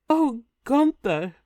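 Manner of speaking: a hammed-up swoon from the queen; swooning sigh. A narrator's reading. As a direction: melt as you say his name. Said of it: "Brunhilde swooning".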